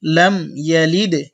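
লাম ইয়ালিদে said slowly, the দ bouncing; slow teacher's model; slow model phrase. Shown as a demonstration. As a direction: read slowly for learners to copy. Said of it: "আবার বলেন".

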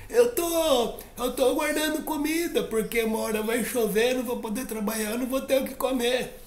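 high, small earnest voice explaining; a tiny ant patiently defending her work; small high-pitched ant. Acted.

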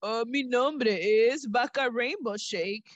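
slow, put-on cow voice. The rainbow cow introducing herself, slow put-on voice. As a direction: drawl it out like a friendly cow.

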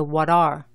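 "What are?" with the T tapped like a Spanish one; "What" flows into "are" on a Spanish-style T. Shown as a demonstration. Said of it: "suena más como la T española".

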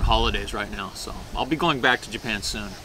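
food at the lips; speaking around a bite; talking while eating. Real, not acted. Seen 0: Holds poke on chopsticks; bites it from 4.6, talking around it.

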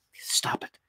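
hushed, voiceless self-command; urgent whisper. A narrator's reading. Saul fighting the vision, urgent whisper to himself. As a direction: whisper it sharply to yourself.

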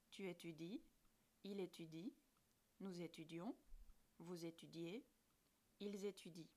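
barely a breath, no voice at all; whispered. Shown as a demonstration. Teacher whispering the final conjugation form to students.

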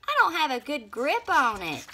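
high, loud worried call; strained, anxious shout; crying out. A narrator's reading. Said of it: "cried Half-Baked Bean".

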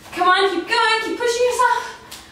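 high, sing-song urging; cheering someone on. Real, not acted. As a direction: lift the voice to push them. Urging near end of set.

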